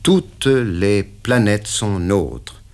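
very slow, deliberate; hesitant slow; slow reluctant answer. Acted. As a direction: drag out the evasive reply. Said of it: "J'hésitai".

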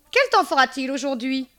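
high, mimicked question; imitated tenant. Landlady quoting her tenant each morning, high mimicry.

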